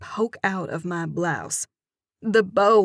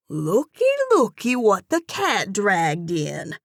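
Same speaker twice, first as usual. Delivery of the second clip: louder sing-song southern purr; purring cashier; 2 semitones higher, 4 dB louder than usual. Acted. Gaudy cashier greeting the returning narrator, purring. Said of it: "purrs with a broad grin".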